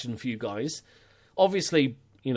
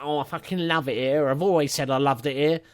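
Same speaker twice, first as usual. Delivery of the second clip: lightly put-on northern English woman's voice; 3 semitones higher than usual. Imitating an unhappy player who now loves it, hint of northern English accent. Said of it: "apparently he's now a woman from the north of England".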